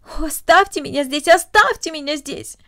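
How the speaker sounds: mild mock of a child's tearful begging; a hint of the child's whimpering plea; imitated plea. Esther repeats Cornelli's begging to the doctor, lightly voiced. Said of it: "бедное дитя только взмолилось".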